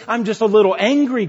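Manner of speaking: leicht spöttisch, als wäre man nur ein bisschen sauer; mock mild anger. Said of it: "kind of voice".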